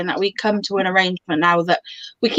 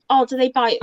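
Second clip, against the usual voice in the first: gentle, polite curious question; asking nicely; 3 semitones higher than usual. Shown as a demonstration. Visitor at ferret show asking politely. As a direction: ask it sweetly, no edge. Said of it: "ask nicely".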